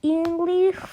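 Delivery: put-on slow, hushed Scottish accent. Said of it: "the man asked in a Scottish accent".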